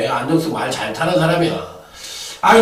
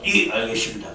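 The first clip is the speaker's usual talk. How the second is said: softer, lower, tail between legs; meek backing down; 8 semitones lower, 9 dB quieter than usual. Retold or imitated. Tipster meekly giving in to the bettor, soft and cowed. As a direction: mumble it like a scolded dog. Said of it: "꼬랑지를 딱 말고서".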